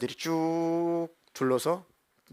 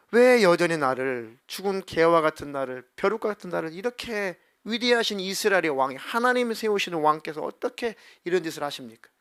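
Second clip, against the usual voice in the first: retold calling out; 2 semitones higher than usual. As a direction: act out an indignant plea to a king. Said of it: "소리소리를 지르죠".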